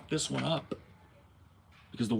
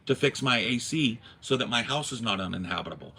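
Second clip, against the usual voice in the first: no-nonsense customer on the phone; man voice. Retold or imitated. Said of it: "See? The man voice".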